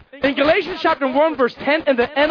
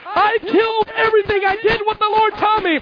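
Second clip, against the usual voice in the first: mock innocent claim; 9 semitones higher than usual. Saul claiming obedience, acted.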